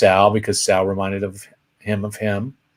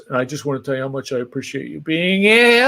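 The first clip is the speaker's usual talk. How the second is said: lightly imitated emotional gush, fast and building; mock-sincere thanks, rising toward an outburst; Jerry Lewis; 2 semitones higher, faster than usual. Comedian thanking his visitors, mock emotional. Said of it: "he did the emotional Jerry".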